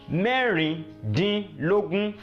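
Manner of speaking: Mẹ́rìndínlógún drawn out in parts; slow teaching model. Shown as a demonstration. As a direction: say the number slowly for learners. Teacher models number word slowly.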